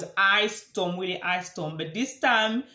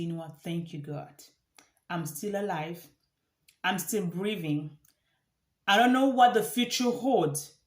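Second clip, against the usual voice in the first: hushed, softer thanksgiving to God; quiet grateful prayer. Shown as a demonstration. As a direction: pray it softly, with gratitude. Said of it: "be grateful at some time and say".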